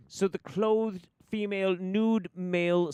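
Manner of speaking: high, drawn-out ad-man presentation; Mad Men pitch. Acted. Pitching a rebranded spell to clients, grand ad-man delivery. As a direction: pitch it slowly and grandly like an ad executive. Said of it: "I'm gonna go Mad Men for this one".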